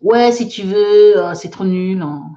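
put-on mild childish contempt; bored kid. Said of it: "la petite fille qui dit ça".

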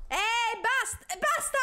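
high, loud frightened protest; scared yelp. Real, not acted. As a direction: yelp at them to stop. Scared again by shopkeeper. (urlo spaventato e acuto)

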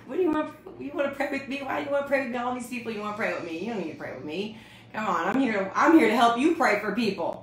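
acted-out bewildered objection; baffled protest. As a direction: protest in disbelief, building to an insistent finish. Acts out her baffled inner protest.

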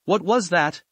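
a startled question, voice jumping up. A narrator's reading. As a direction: caught off guard by the thud.

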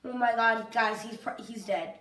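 low, soft and deflated; quiet dismay. Real, not acted. Gamer seeing the teammate is dead, quiet dismay. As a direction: drop the voice as hope goes.

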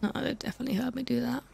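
talking with a tissue in nose; muffled voice with a blocked nostril; tissue up one nostril. Real, not acted. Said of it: "I need tissue in my nose".

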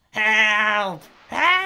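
high, loud cry; calling for help. Acted. Mother crying for help from the fire, high loud. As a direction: wail for rescue.

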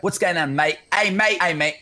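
tentative practice of an Australian accent; lightly faked Australian accent; attempted Australian accent. Shown as a demonstration. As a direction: try out an Australian "mate". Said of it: "how good my Australian accent is".

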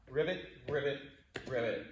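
three frog croaks; frog ribbit. Shown as a demonstration. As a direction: ribbit along with the hops. Frog hops, imitating a frog.

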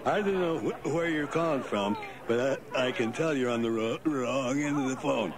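slurring, stammering party-goer; tipsy from the office party; drunk voice. Shown as a demonstration. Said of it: "Now, listen".

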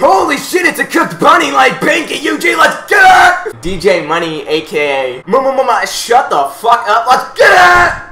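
hype announcer. Pretend.

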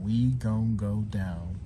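drawn out slowly; slow careful. Shown as a demonstration. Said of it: "I'm gonna try".

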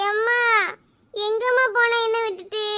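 tearful plea for mother; child crying. Acted. Trapped child crying for her mother, tearful. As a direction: cry out for mom, sobbing.

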